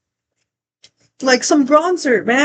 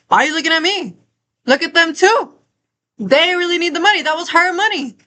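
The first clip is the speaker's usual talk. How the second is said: retold yelling; 5 semitones higher than usual. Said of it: "because I was yelling".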